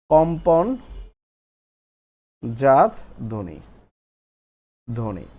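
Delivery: কম্পনজাত stretched out, long pause before ধ্বনি; slow dictation. Shown as a demonstration. Teacher dictating a new heading to the class, slow and broken up.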